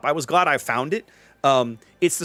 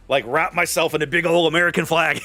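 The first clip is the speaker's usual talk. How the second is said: laughing. Real, not acted. Joking, laughter heard.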